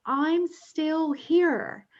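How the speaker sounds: put-on high, slow call of a lost boy; ghost boy calling out. Ghost boy running through the field, calling high and slow to the medium. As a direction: stretch it out high like a child calling.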